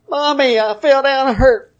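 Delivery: a hint of a small child calling for mommy; little child. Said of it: "just as a child does".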